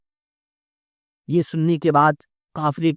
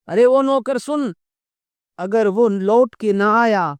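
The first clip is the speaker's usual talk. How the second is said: calling out; 3 semitones higher, 4 dB louder than usual. Acted. Wife calls out to servant.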